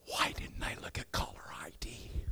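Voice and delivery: hushed, dismayed muttering to yourself; soft whispered groan. Pretend. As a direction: breathe it as a guilty private thought. Inner thought dreading the pastor's call.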